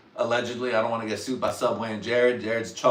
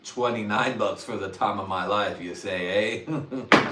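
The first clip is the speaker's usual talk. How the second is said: louder mock haggling, punching the price; louder hammed-up repeat; 4 dB louder, slower than usual. Haggling with the dealer, louder and hammed-up. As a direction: sell the bargain louder. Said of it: "when I was like".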